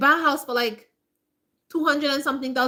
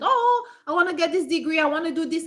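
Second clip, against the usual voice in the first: higher-pitched eager whine, imitated; mock impatient student; 5 semitones higher than usual. Mocking impatient students who want it all, exaggerated eagerness. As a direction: mimic someone who wants everything at once.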